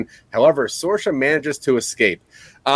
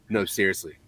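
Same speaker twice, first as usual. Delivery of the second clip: hushed urgent plea, low and soft; a hint of a whispered shout, pleading; whisper yelling; 7 semitones lower, 8 dB quieter, faster than usual. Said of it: "whisper yelling that he's in love with her".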